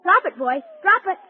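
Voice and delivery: firm command to dog. Acted. Boy ordering dog to drop.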